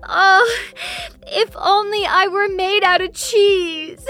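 tearful wishing, voice breaking; crying moon. Acted. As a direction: sob out the wish. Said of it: "The moon started to cry".

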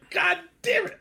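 high, loud cry of frustration; exasperated shout. Retold or imitated. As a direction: shout it in mock despair at the character. Reacting in exasperation to the film.

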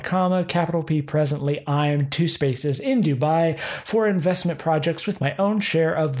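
spelling out every comma and space; reading punctuation aloud. Shown as a demonstration. Reading a scam email to viewers, pedantic and dictating. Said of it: "this is all one sentence".

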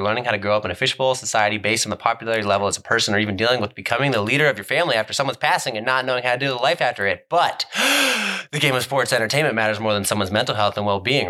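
rushed reading without pausing; all in one breath. Pretend. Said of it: "in one breath because there's".

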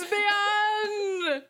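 high excited shout. Real, not acted. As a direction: shout the word out. Shouting the song title.

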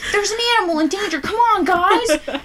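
high and loud, rushed then stretched, through laughter; laughing cartoon hero. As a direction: replay the rescue call while cracking up. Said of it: "Or like the, the Octonauts".

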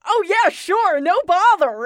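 high, casual put-on voice; breezy, cheerful agreement in character; obliging butler. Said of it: "And the guy goes".

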